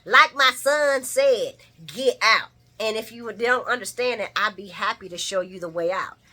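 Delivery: put-on swagger like a proud old man; mock tough old man warning; lippy old man. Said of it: "he's like".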